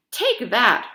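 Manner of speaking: loud, punchy take that; playful fighting shout; loud battle cry. A narrator's reading. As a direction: swing the words like a blow. Fight in the guard room.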